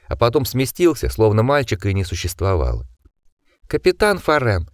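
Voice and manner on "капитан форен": shrill nobleman voice. A narrator's reading. Osmond addressing captain.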